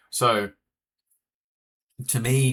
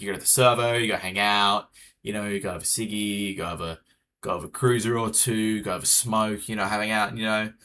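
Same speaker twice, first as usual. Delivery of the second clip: easygoing Australian accent, brought back down from bogan; real nice Australian accent. Shown as a demonstration. Streamer showing chat the milder level, nice Australian accent. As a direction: keep it Aussie but relaxed, not broad. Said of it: "bring it back down, and it's, like, it's real Australian, it's real nice".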